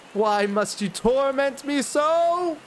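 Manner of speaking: put-on high, slow, pleading young woman; pleading daughter. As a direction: beg him like a caged noble daughter. Daughter pleads with her father.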